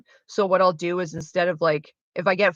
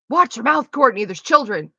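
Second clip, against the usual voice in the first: high, loud scolding of herself; mock self-scolding; 5 semitones higher, 7 dB louder than usual. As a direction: tell yourself off like a shocked mother. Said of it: "literally out loud admonish myself".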